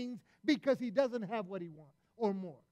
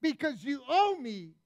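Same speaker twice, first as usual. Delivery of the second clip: harsh demand; 3 semitones higher, 6 dB louder, slower than usual. Retold or imitated. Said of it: "and so he says".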